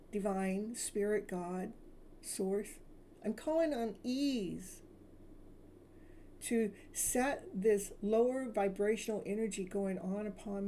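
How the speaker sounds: soothing self-love meditation; guided affirmation. Acted. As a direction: lead the listener through release. Leads healing affirmations.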